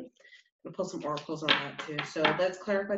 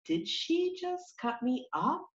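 shocked masculine voice; 10 semitones higher, 4 dB quieter, slower than usual. Retold or imitated. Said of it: "the masculine is like".

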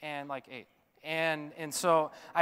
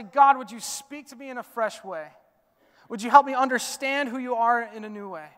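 louder, pleading prayer to God; earnest prayer; 4 semitones higher, 9 dB louder than usual. Acted. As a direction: pray it out loud, slowing at the end. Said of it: "for us to say".

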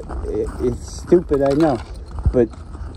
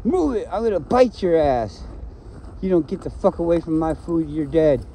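gruff threatening dog voice; tough dog; 3 semitones higher than usual. Retold or imitated. The dog warning another off its dish, threatening. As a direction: growl it like a territorial dog. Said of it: "They're saying".

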